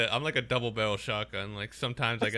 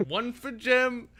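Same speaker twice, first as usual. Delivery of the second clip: slow, laughing announcement; 10 semitones higher, much slower than usual. Real, not acted. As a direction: announce the score through laughter. Laughing scorekeeping.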